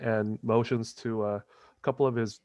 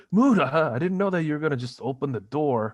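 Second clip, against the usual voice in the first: out of breath, words rushing out; panting after a fight; 4 semitones higher, 4 dB louder than usual. Acted. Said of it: "he's panting".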